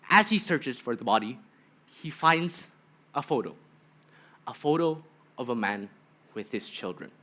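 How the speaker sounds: measured dramatic speech with long pauses; solemn thesis opening, pausing for effect; formal speech. Real, not acted. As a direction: deliver a grave story opening, phrase by phrase. Student delivers prepared thesis opening.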